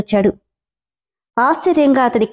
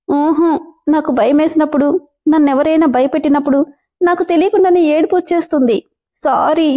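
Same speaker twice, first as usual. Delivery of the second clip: put-on higher, pleading young woman, tearful; frantic denial; 4 semitones higher than usual. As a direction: rush the denial in a high timid voice. Manu explains her crying. (ఏడుస్తూ కంగారుగా సంజాయిషీ)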